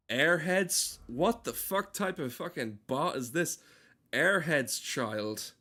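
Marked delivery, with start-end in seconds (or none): 0.1-3.3 baffled at the name; surprised. Real, not acted. Reacting to bot name.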